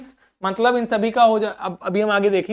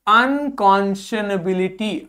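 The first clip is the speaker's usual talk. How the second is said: slow model word; slower than usual. Shown as a demonstration. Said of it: "क्या हो गया".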